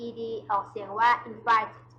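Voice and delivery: "invited" ending in an extra "tid", very slowly; "invited" with final "tid" clearly added. Shown as a demonstration. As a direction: say "invited" slowly with three syllables.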